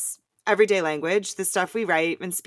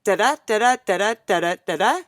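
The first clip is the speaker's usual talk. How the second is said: DA-DA five times, every second syllable punched; iambic rhythm; 3 semitones higher, 5 dB louder, faster than usual. Shown as a demonstration. Co-host counts out the meter, second syllable of each DA-DA stressed. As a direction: beat out DA-DA weak-strong, evenly. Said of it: "Five iambs".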